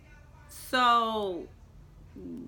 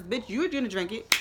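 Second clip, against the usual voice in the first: retold indignation; 4 semitones higher, 4 dB louder than usual. Retold argument with friend at bar.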